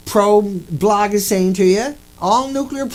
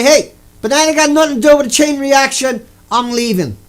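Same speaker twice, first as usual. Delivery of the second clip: loud; 4 semitones higher, 6 dB louder than usual. Pretend. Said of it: "say it nice and loud".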